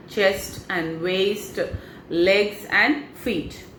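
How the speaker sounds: slow, unhurried body-scan guidance; guided meditation. Acted. Coach guiding viewers through a body scan, slow meditation voice. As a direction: lead them down the body slowly and calmly.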